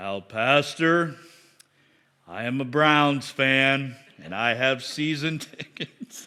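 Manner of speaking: real bass-heavy man's voice, dropped low. Retelling what Scott would tell him, the pastor, after making coffee, imitating Scott's deep bass voice. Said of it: "had that deep voice".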